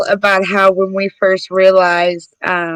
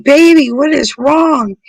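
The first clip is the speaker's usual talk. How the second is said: alarmed mother; 5 semitones higher than usual. Retold or imitated. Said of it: "I'm like".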